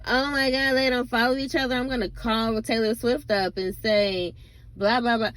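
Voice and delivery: lightly mock a starstruck gossip fan; mock gushing fan. Ranting vlogger mocks fans shocked over celebrity gossip, hammed-up gasp. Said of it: "what are you expecting from people to be like".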